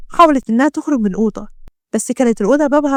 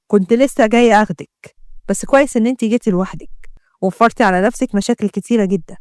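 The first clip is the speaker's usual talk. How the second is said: menacing mafia man. Acted. Mafia man threatens the doctor.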